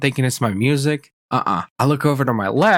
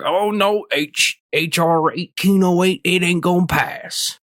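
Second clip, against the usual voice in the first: higher-pitched mocking pro-gun guy; mock dismay, pitched up; 5 semitones higher than usual. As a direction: mimic a whining naysayer in a raised voice. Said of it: "every pro-gun guy here".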